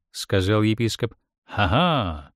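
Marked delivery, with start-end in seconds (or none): 1.4-2.3 heated mock laugh. A narrator's reading. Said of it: "отпарировал епископ с запальчивостью".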